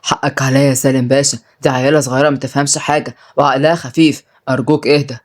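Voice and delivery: low, mildly fearful appeasing; terrified. Acted. Uncle begs the boss to calm down, fearful. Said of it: "ورد سعيد برعب".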